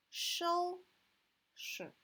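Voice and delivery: 收 high and level, 拾 short with no tone; 收 held high, then drop 拾 lightly; light second syllable. Shown as a demonstration. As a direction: stress 收, leave 拾 brief and toneless. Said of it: "is without tone".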